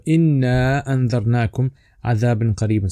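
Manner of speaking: quick melodic recitation of the ayah; Quran recitation. Shown as a demonstration. Teacher reciting the ayah to his students, melodic and quick. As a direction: recite it swiftly in Quranic tune.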